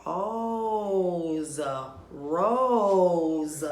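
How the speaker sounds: rose said whole, drawn out; blending the word. Shown as a demonstration. Teacher blending rose for children. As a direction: rose held long. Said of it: "Let's blend the word rose".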